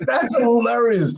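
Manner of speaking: high, slow, words broken by laughter; Bradshaw laughing. Retold or imitated. Bradshaw delighted by the fight, imitated laughing. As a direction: crack up mid-sentence, imitating a friend. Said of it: "Bradshaw's laughing like".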